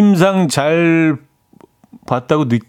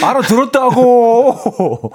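higher, slow whiny 고 at the end; sulky teen drawl; 9 semitones higher, 3 dB louder, much slower than usual. Acted. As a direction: sulk it out like a moody teen. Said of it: "중이 병 애들이 하는 그 톤".

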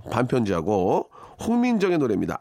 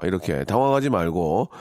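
usual speaking voice

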